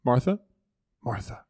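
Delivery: gentle attention-getter. Retold or imitated. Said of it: "he's catching her attention".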